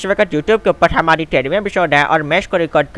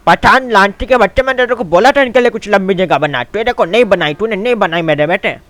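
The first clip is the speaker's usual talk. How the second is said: angry scolding; 4 semitones higher, 4 dB louder than usual. Acted. Scolding Pathan over the dead camel.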